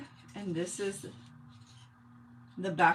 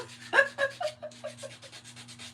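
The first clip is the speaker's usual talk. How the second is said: high breathy giggle. Real, not acted. Laughing after thanks.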